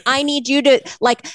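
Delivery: frantic demand. Retold or imitated. Wife pleading with her too-calm husband from the stretcher, frantic. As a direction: beg him to finally panic.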